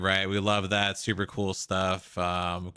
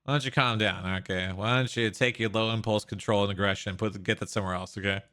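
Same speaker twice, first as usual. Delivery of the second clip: mock-soothing, belittling tone; condescending calm down; much faster than usual. Real, not acted. Condescending calm-down to angry protester.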